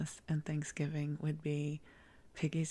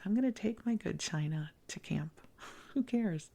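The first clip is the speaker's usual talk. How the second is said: carefree gusto; 5 semitones higher than usual. Retold or imitated. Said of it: "This resilient spirit that says".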